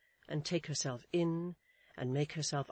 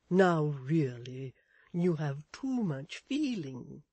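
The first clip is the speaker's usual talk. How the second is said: slow, drawn-out, soothing character voice; 5 dB louder, slower than usual. A narrator's reading. Miss Tox comforts distressed Mrs Chick, soothing. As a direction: soothe firmly and slowly. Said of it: "said Miss Tox in a soothing voice".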